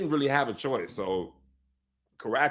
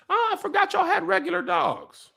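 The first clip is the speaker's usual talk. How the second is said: mock surprise. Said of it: "And I was like".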